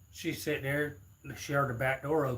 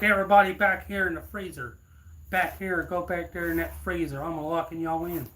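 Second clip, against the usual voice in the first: robber's orders; 4 semitones higher, 6 dB louder than usual. Retold or imitated. Robber ordering hostages into freezer.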